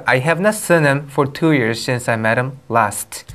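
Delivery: slow English read-aloud; slow, measured teacher's reading; model reading. Shown as a demonstration. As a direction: read it out slowly for the class. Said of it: "자, 한번 읽어볼게요".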